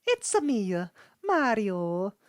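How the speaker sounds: high, loud cartoon brother voice; Luigi voice. Doing the Luigi voice calling for his brother. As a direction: call out like the cartoon plumber's brother. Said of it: "my Luigi voice".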